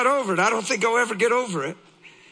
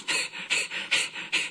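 soft, voiceless chuckle; breathy laugh; 9 dB quieter than usual. Real, not acted. Laughs after tomb line.

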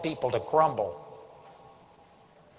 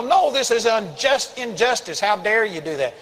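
mock outraged protest; 5 semitones higher than usual. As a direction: imitate an indignant objector, voice pitched up. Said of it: "would just scream and yell".

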